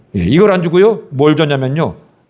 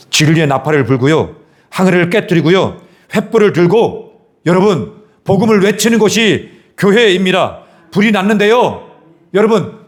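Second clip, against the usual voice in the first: building preaching; 7 semitones higher than usual. Real, not acted. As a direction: proclaim it with growing urgency.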